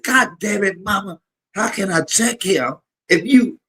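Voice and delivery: mother's outburst. Retold or imitated. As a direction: squeal it up high like an exasperated daughter. Mother protesting to grandma.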